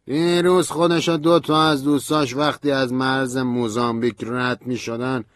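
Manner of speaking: high, loud, urgent voice fading at the end; Stanley agitated. A narrator's reading. Stanley tells narrator Orlando was killed, agitated then fading. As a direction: pour out the bad news.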